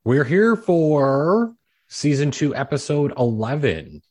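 put-on slow, creaky old man intro; a lightly done old man greeting the listeners. Slow old man voice, announcing the episode. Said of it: "who does a very good old man accent".

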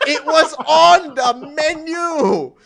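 slow, high and loud through laughter; laughing. Real, not acted. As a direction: drag it out, cracking up. Laughing at absurd news.

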